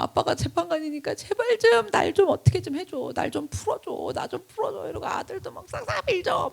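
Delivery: tearful begging to his father; pleading son. Retold or imitated. Son begs judge father for mercy. (아버지에게 울먹이며 매달리는 아들)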